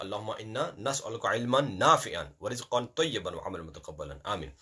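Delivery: fast, hushed closing supplication; prayer. Acted. Teacher closing the class with a prayer. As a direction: murmur the dua quickly.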